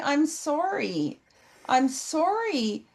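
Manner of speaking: soft, slow, emotional sorry; hushed heartfelt apology; tender apology. Acted. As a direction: apologize gently and slowly, up close. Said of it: "And I get emotional".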